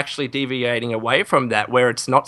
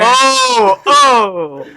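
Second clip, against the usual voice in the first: shocked oh; 11 semitones higher, 7 dB louder than usual. Real, not acted. Reacting to a scandalous revelation.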